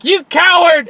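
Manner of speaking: high-pitched mock yell; mock villain taunt. Retelling villain as the horse leaves, imitated angry shout. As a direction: hurl it like a hammed-up insult. Quoting villain yelling after hero.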